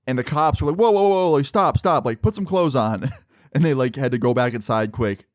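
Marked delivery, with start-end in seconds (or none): 0.8-3.1 retold cop shout. Cops halting half-dressed runaways.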